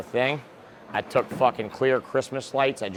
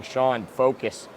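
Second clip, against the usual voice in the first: slow, drawn-out scolding; mock nagging; slower than usual. Relatives telling young Sean to focus, slow nagging. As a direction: stretch focus like a weary parent. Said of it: "all the shit they told me".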